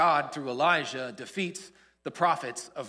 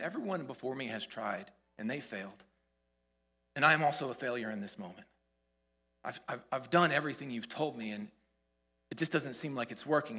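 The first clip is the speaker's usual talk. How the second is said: low, soft, defeated confession; dejected; 6 semitones lower, 6 dB quieter than usual. Acted. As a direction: give up quietly, in acted despair. Voicing Elijah's despair to God.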